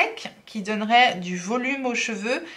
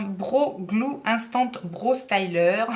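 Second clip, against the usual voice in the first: slow, put-on English accent on the brand name; mock English accent; much slower than usual. Shown as a demonstration. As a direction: show off her best English accent, half joking. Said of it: "Avec mon meilleur accent". (accent anglais appuyé et lent, pour rire)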